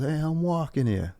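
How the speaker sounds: high, slow mock New York yell; hammed-up, drawn-out street holler; Dustin Hoffman impression. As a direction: imitate the angry pedestrian slapping the cab. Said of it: "he slaps it and he goes".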